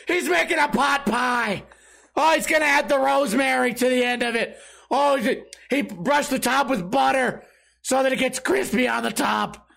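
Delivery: high, excited play-by-play yelling; excited screaming at the screen. Retold or imitated. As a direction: hype up every step of the cooking. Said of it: "I'm just like".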